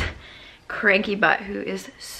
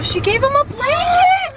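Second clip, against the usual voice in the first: high excited squeal; 5 dB louder than usual. Real, not acted. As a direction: squeal with delight. Excited about baby gift.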